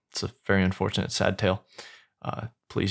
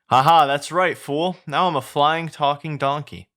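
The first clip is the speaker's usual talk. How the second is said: higher-pitched, lightly acted boasting; gloating donkey; 5 semitones higher, 3 dB louder than usual. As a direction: gloat as a triumphant flying donkey. Flying donkey gloats at guards.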